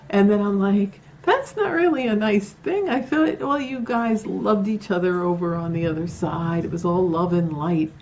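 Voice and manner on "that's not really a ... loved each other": mock scolding. Scolding the rude spirit.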